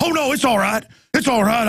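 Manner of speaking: imitating a suddenly nervous tough guy; backpedaling grovel. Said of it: "they're like".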